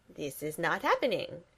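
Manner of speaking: a dry deadpan reply; deadpan it, unimpressed. Acted. Gru answering his daughter, dry deadpan. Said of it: "Gru says dryly".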